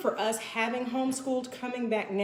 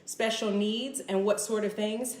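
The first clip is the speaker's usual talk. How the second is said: usual speaking voice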